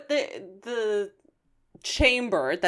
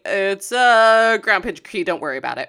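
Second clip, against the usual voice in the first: evasive mumble; 5 dB louder than usual. Retold or imitated. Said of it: "Optimus is like".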